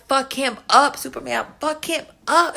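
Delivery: high, loud cheer at the screen; replayed fight cheer. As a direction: egg Superman on like a fan in the seats. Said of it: "I was like".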